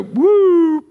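sudden high loud whoop. Retold or imitated. Wife's inner warning acted out, high whoop. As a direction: yelp a sharp high alarm. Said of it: "her knower would just go".

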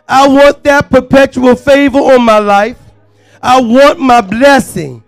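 loud preacher's cry of faith; declamatory yell. Acted. Worshipper crying out for perpetual favor, in a loud yell. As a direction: cry it out boldly for all to hear. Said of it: "to yell".

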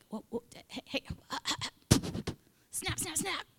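high, staccato mock interruption; attention-getting interruption. Imitating God reining in a fired-up believer, interrupting. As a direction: cut in with quick little high calls.

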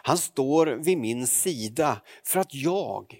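scripture reading. Acted. Preacher reads Acts chapter two to the congregation, solemnly. Reads Bible text aloud.

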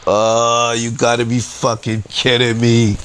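drawn-out "Oh", then one running groan of disbelief; exasperated disbelief. Retold or imitated. Customer looking up at the arriving police, exasperated disbelief. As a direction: groan it out in a single retold breath.

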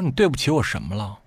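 calm, not angry. Retold or imitated. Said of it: "我一点儿都没发怒".

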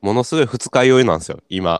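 groggy hungover voice. Real, not acted. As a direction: talk through a hangover.

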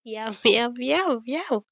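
rising, laughing yum yum; gleeful yum. Retold or imitated. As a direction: savour the twist with giggly yums. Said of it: "I'm just like".

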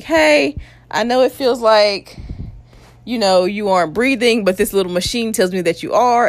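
high, sweet reassuring nurse. Retold or imitated. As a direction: soothe the patient in a high voice. Nurse quoted, high bright voice.

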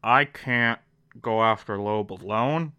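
a hint of a low, hushed Olivia; voicing Olivia. Olivia quietly asking Charlie for help, lightly voiced. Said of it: "Olivia pulls Charlie Francis aside and is like".

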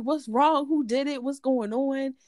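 high-pitched, retold worried questioning; upset. Mama Rita demands what happened on the phone, upset. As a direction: mimic someone upset firing questions. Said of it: "she was upset".

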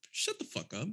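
low-key, softly spoken command; means business. Acted. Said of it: "I mean business".

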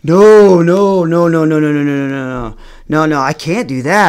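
put-on teen begging the teacher, flustered; panicked refusal. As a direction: deny it in a flustered rush. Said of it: "And I'm like".

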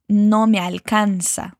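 slow "alcanza" with wide-open A; open A, clear L. Shown as a demonstration. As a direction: say "alcanza" with the L tongue touching the upper teeth. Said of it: "con la A bien abierta y la L".

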